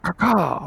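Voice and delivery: a quick cawing crow call. Shown as a demonstration. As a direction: caw like a crow. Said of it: "Just make some animal noises".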